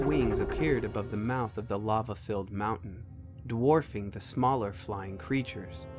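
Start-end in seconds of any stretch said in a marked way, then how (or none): none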